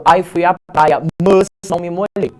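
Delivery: like a foreigner, not a native; sounds like an alien. Pretend. Teacher imitating a foreign speaker to show mas sounds alien. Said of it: "Parece um E T".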